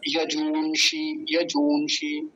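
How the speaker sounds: यजूंषि with a long ऊ and a short इ; यजूंषि, retroflex ष and short इ; careful pronunciation. Shown as a demonstration. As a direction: model यजूंषि slowly. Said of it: "मूर्धन्य शकार पर ह्रस्व इकार".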